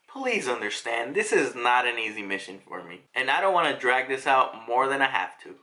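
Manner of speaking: low, subdued quoted voice; grave villain's plea. Retold or imitated. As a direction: act out a weary, reluctant explanation. Acted Kizaru explaining himself gravely.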